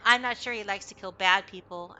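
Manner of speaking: put-on bouncy good boy itching for a fight; excited dog voice.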